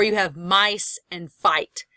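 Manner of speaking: slow vowel demo. Shown as a demonstration. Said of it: "You have the I sound".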